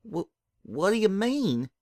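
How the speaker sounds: high, halting, tearful question; shuddering tearful question; through tears. Acted. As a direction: ask while crying. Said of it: "She shuddered through tears".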